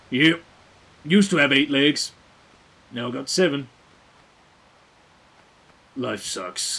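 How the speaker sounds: put-on sour, worn-out, jaded, bitter old voice. Imagining a septopus that lost a leg: jaded, bitter octopus voice. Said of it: "this jaded, bitter old arthropod that's like".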